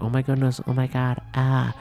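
high, alarmed gasping voice; panicked onlookers crying out; shocked bystanders. Retold or imitated. Bystanders shocked at punched wife.

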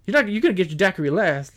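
quick, high mock Southern threat; lightly imitated New Orleans accent; Southern drawl. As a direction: mimic a put-out Southern driver. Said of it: "The Southern drawl was just out".

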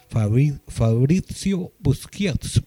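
slow, halting try at Fabrizio Busquiazzo; difficult name attempt. Shown as a demonstration. Host trying a new player's hard name, careful and halting. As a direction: feel out Fabrizio Busquiazzo, ending boos-KYAT-so. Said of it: "muy difícil".

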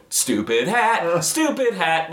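high, drawn-out taunt; mock pestering. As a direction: chant it like an annoying heckler. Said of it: "just stand behind him and go".

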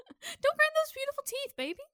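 high, laughing sweet talk; laughing tease. Pretend. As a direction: coo at him through laughter.

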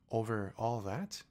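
slow, rising question of wonder; amazed question. Acted. Little prince marvelling at the king's realm, slow rising. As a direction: ask in awe, stretching it out. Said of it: "asked the little prince".

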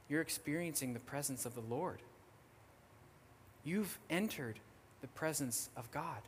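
soft, reverent reassurance; softly explain, as a pastor would; hushed, measured retold pastoral answer; gentle pastor. Pastor answers weeping woman, retold.

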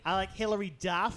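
nasally mock Boston voice; nasal Boston accent. Shown as a demonstration. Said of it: "More nasally".

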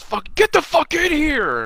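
very high, drawn-out mock yell; hammed-up cartoon battle cry, stretched out; imitating JP. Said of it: "and he goes".

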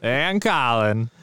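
half-hearted, slow impression; Borat. Co-hosts retry the show intro, poor Borat impression. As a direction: draw the name out in a badly done accent. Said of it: "I can't do a good Borat".

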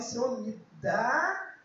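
very slow, soft prayer to God; whisper-close plea for courage; oração baixinha; quiet prayer. Acted. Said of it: "Fala assim".

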